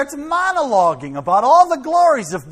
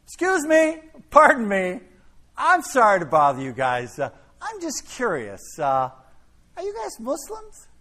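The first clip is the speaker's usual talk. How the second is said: happy tone. Retold or imitated. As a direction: ask brightly as if it's good news. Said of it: "Said in a very happy tone".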